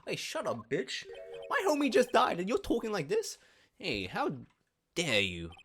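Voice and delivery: high, loud outraged yell; furious shout. Acted. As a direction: scream at him for his cruelty. Witness snaps at prosecutor.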